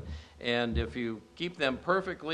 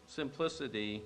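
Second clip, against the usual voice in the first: slow, gentle hymn recitation, not sung; recited hymn. Acted. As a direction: speak the old hymn tenderly and slowly. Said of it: "this is how it goes".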